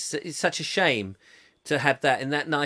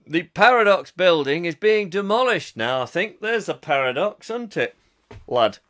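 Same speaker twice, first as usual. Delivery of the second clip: put-on Northern English accent; 4 dB louder than usual. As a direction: chat away as a Northerner. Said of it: "an up north accent".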